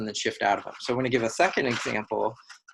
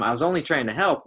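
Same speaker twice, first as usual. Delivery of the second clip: quick, higher retold protest; mock defensive yell; 4 semitones higher, 4 dB louder, faster than usual. Wife yelling at her husband, mildly acted defensive protest. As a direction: lightly act an indignant comeback. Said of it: "the persecutor yelling at him".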